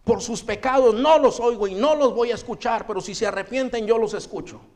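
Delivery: stern God voice. Retold or imitated.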